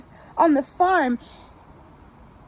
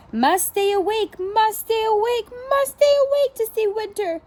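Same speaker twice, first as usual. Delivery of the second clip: each repeat climbs higher and faster; pushing himself to stay awake, more urgent each time; rising insistence; 7 semitones higher than usual. A narrator's reading. Hedgehog fighting sleep, repeating.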